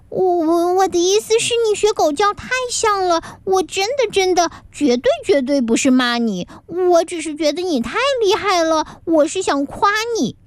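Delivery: put-on high, stammering girl apologizing; hurried apology. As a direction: rush to make amends. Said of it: "连忙道歉". (女孩结结巴巴连忙道歉，声音偏高)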